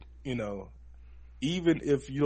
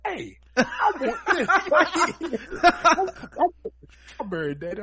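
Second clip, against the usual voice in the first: put-on little kid voice; 10 dB louder than usual. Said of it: "My son literally ... was like".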